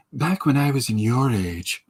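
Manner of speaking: lightly voiced old lady; a hint of an elderly woman reminiscing. Streamer guessing how Linda's inner voice sounds, lightly voiced old lady. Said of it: "does it sound like".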